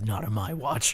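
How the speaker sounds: a light put-on American accent, said low. Harold Holt scrunching up the newspaper, defiant, in a light American accent. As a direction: deliver it like a Hollywood action hero, in a mild American accent. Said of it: "In an American accent for no reason".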